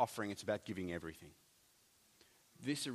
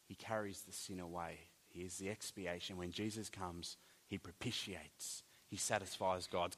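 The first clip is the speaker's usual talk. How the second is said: hushed solemn; 4 semitones lower, 7 dB quieter than usual. Acted. Solemn hush over Jesus' sacrifice.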